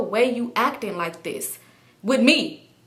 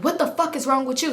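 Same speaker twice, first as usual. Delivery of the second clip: milder indignant comeback, slightly raised pitch; a touch of exasperation, little shouting; retort, retold; 5 semitones higher than usual. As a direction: throw the question back, less forcefully. Her acted reply, less forceful.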